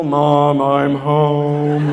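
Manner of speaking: loud, very low, droning voice; house-shaking bass child. Pretend. Child coming home from school to Mom, booming bass. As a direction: boom it out deep and loud. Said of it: "our children would shake the house when they talk".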